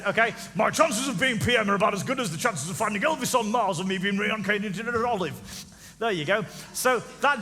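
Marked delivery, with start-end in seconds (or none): 0.5-5.3 quoted politician voice. Retold or imitated. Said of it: "here's what he said".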